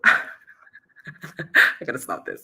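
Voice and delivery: breathy laugh into the words, slow. Real, not acted. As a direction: laugh through the line at your own slip. Laughs at own slip of tongue.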